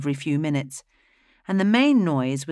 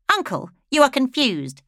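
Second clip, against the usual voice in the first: much higher, mocking condescension; condescending widow; 10 semitones higher, 4 dB louder than usual. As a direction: talk down to the old man. Flaminea condescends.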